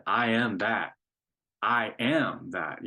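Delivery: "I am that" with "I am" leaned on, the second one slow; stress on I am. Shown as a demonstration. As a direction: lean into "I am" each time you say it. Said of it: "he's really emphasizing that word".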